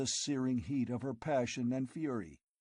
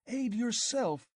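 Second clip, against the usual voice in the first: high, slow, louder outburst; girl urging him to rebel; fierce cry; 11 semitones higher, 4 dB louder, slower than usual. A narrator's reading. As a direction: fling the words at him fiercely. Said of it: "she cried fiercely".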